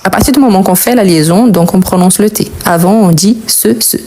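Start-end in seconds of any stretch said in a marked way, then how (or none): 3.5-4.0 "ce", "ce" sounded exactly alike; identical pronunciation. Shown as a demonstration. Teacher explains both written forms sound alike, "ce" repeated identically. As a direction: say "ce" twice with the same sound, no T. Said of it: "La prononciation, c'est la même".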